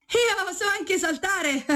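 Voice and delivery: slow, very high cheeky cat voice. Acted. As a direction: play the tricky cat, sing-song high. Cat speaks in fable.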